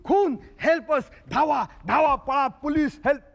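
calling for help half acted; retold shouting. Retelling the murder scene to the inspector, mild mock yell. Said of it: "मग मी ओरडलो".

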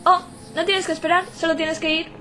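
robot voice. Acted. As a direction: talk like a little robot guard. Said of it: "Estoy poniendo voz de robot".

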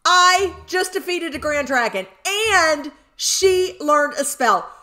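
very high, loud ecstatic yelling; real excitement. Real, not acted. Player just defeated a Grand Dragon, wildly excited. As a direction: shriek oh-my-gosh in overjoyed disbelief. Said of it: "I'm so excited!".

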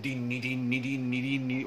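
sing-song "din din din" of repeated hits; rapid-fire "din din din" imitation. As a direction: mimic blows landing one after another. Mimics goals raining in on him.

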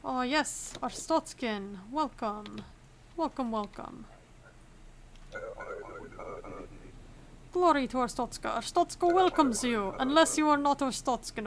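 hearty mock Arstotzkan border-officer accent; put-on Arstotzkan accent. Inspector proudly welcoming citizens to Arstotzka, mock Arstotzkan accent. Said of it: "gotta stop doing this accent".

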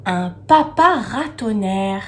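papa stressed, ratonnerre drawn out after it; measured papa ratonnerre, leaning on papa; papa picked out. Shown as a demonstration. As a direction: make papa stand out in papa ratonnerre. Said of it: "On entend encore papa".

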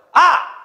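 "아!" as one loud, high syllable; pronunciation demo. Shown as a demonstration. Teacher showing students how Japanese kana sounds, demonstrated loudly. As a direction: call out a single high "아!". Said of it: "이렇게 발음하죠".

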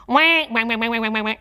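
quacking wah wah laugh; duck laugh. Shown as a demonstration. Coach shows students a silly duck laugh. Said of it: "do a kind of a duck laugh".

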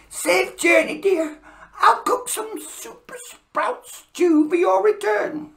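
high, bright wife's voice; cheerful Mrs Claus. Acted. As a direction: sing her goodbye high and sweet.

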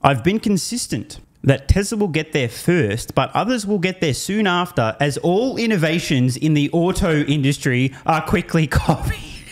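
slow deliberate reading, laughing at the end; read slowly. Shown as a demonstration. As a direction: savor each word slowly. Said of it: "let me just read this slowly".

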